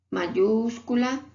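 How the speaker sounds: slow, stretched "mayúscula", final a held; teacher stretches "mayúscula" to stress the rule; drawn-out mayúscula. Shown as a demonstration. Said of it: "Esta parte es muy importante". (mayúscula dicha despacio y alargada)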